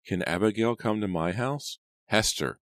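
put-on high singsong little girl, rising at the end; high-pitched girlish plea. A narrator's reading. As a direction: call it like a ghostly little girl. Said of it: "spoken in the same girlish voice".

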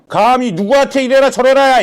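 heated and affronted; indignant outburst. Acted. Judge rebuking a party leader for ordering him about, indignant. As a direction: pull rank with an indignant burst. Pulls rank in quarrel.

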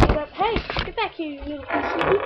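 loud scolding call at a runaway pet; calling out sharply. Real, not acted. Yelling after a pet that ran off, loud and sharp. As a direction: raise your voice to stop something getting away.

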